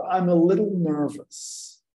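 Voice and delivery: slow and careful; slow model sentence. Shown as a demonstration. Teacher modelling sentence four for learners. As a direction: lay the sentence out slowly. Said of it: "Sentence number four".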